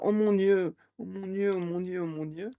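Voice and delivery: a hammed-up panicked scammer trailing off; mock panic. (panique jouée, de plus en plus bas)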